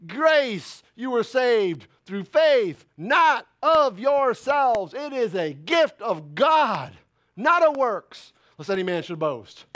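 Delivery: slow, weighty, each phrase spaced; scripture recitation. Acted. Preacher reciting Ephesians to the church, slow. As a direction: lay the verse down slowly.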